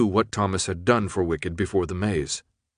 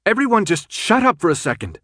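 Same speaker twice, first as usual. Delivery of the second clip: much higher, exasperated shout; high, forceful call for silence; 10 semitones higher, 4 dB louder than usual. A narrator's reading. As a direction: cut through the argument with a raised voice. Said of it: "Brenda shouted".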